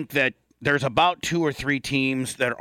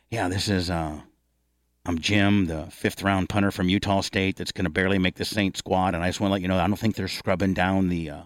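lightly voiced, lower anonymous tipster; mock caller; 6 semitones lower than usual. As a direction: play a nervous backup punter phoning in a tip, a touch lower. Caller impersonating a backup punter.

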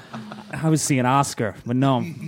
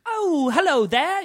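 imitating British politeness; 12 semitones higher, slower than usual. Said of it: "normal people will just be like".

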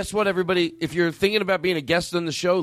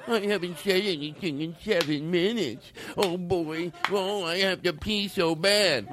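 mocking quiet imitation; 4 dB quieter, slower than usual. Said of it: "And all of a sudden".

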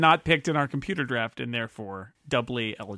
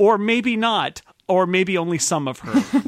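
teasing laugh; 4 semitones higher, 6 dB louder than usual. Real, not acted. Teasing spoiler dodge.

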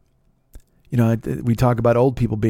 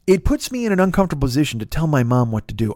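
ordinary delivery

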